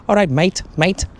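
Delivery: high, bright-pitched imitation of the barman switching to a matey local greeting; mock barman greeting. Imitating the barman greeting him in a high mock voice. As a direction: play the French barman dropping the accent to sound like one of the lads. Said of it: "and then he just kept going".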